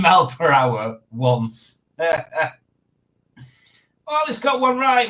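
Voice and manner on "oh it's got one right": surprised delight. Real, not acted. A quiz answer comes in right.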